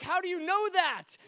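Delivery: high-pitched, incredulous outburst; disbelieving demand. Retold or imitated. Stranger asked about his back pain, high-pitched disbelief. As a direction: imitate a swearing man who is astonished. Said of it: "he can't believe it".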